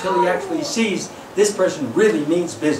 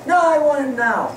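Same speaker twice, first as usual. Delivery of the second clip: put-on higher, insistent kid whine; whiny child; 6 semitones higher than usual. Child whining at his father for a toy car, higher. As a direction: demand it like a child. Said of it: "your little child says".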